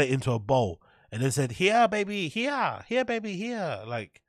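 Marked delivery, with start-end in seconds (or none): 1.5-3.8 higher, lightly voiced Asian mum accent, coaxing; a jokey stab at an Asian mum's accent; mock Asian mum accent. Mocking the mum feeding her son, in a rough Asian accent. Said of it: "I can't do the accent".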